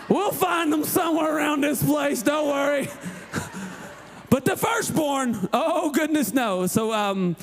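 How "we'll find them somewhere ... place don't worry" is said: high-pitched, casual brush-off; breezily unconcerned. Acted. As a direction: wave it away in a lightly raised voice. Casual parent of lost third kid.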